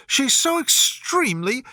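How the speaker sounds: put-on a young girl complaining, a bit breathless with fuss; Alice, voiced lightly. A narrator's reading. Alice, then catching herself.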